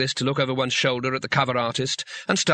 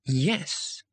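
calm; 2 semitones higher, 3 dB quieter than usual. A narrator's reading. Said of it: "he said calmly".

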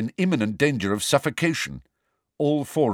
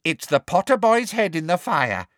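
elf voice, higher and hunched; creature voice; 9 semitones higher, 3 dB louder than usual. A narrator's reading. Elf muttering alone to an empty kitchen. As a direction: mutter it like a sly house elf.

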